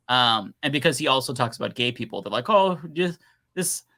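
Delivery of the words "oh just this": higher-pitched mimicry of scolding commenters; mock outraged critic. Mimicking followers accusing him over the doctor, mock outrage. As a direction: imitate indignant online critics, pitched up.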